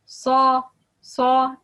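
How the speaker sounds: Sa with a heavy, dark s; loud Sa, sa with backed vowel; heavy letter. Shown as a demonstration. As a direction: say Sa full and heavy. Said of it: "the heavy letter".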